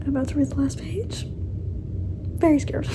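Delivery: hushed nervous whisper. Real, not acted. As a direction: whisper it, scared. Nervous before the last page.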